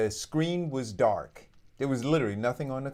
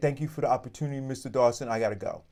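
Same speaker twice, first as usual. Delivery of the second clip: put-on weepy, tearful voice, through tears. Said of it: "she's crying, hysterically crying".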